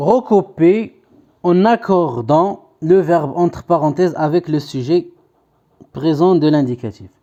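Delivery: slow, deliberate reading of instructions; dictation voice. Shown as a demonstration. Teacher reading exercise instructions to pupils, slow dictation. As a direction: read it out slowly for copying.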